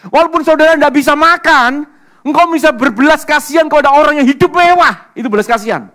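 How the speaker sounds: very loud, high sustained shout from the pulpit; shouted, high-pitched sermon climax; full-force preaching. Real, not acted. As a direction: proclaim it to the whole congregation.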